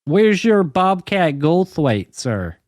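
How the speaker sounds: slow Southern debutante challenge; lightly put-on Southern accent; Southern belle accent. Keeps up the Southern belle bit.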